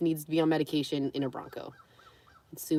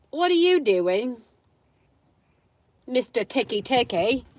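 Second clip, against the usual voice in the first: pet talk; 4 semitones higher, 3 dB louder than usual. Real, not acted. Talking to her dog.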